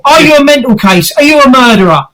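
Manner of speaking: pointed, goading questions; changed aggressive tone. Shown as a demonstration. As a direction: demonstrate needling a spirit. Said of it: "change the tone of your voice".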